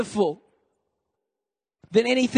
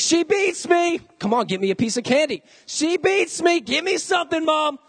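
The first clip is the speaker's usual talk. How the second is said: kid's fake cry for help; 7 semitones higher than usual. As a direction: wail it like a bratty six-year-old. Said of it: "I start threatening my mom".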